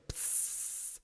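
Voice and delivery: unvoiced hissed "psst"; imitated squirrel spray. Imitating squirrels spraying the speaker, as a hissed noise. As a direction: let out a long, soft hiss.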